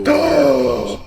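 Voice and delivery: sarcastic duh. Real, not acted. Sarcastic reaction.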